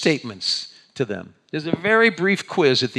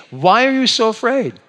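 kind; 9 semitones higher, 7 dB louder than usual. Shown as a demonstration. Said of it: "you just say".

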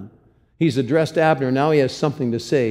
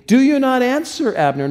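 high, loud call across a distance; calling out from a far hillside; 10 semitones higher, 5 dB louder than usual. Acted. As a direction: shout it over the valley. David calling across the hill.

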